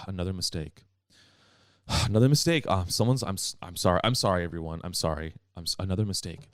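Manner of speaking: low, sighing, over-sorry teacher; apologetic sighing. Retold or imitated. Teacher owning up to the class over another mistake, dejected and apologetic. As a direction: sigh and apologize as if beaten by it. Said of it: "apologize for, like, getting angry".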